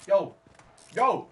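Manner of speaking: high, loud acted yelps; calling for help. Swimmer calling out in the water, mock alarmed shout. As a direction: call out sharply as if in trouble.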